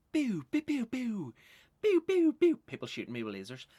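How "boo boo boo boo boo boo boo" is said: high, loud mock booing; crowd booing. Audience booing the podcaster, loud jeering boos. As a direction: boo him off the stage. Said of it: "all you hear is".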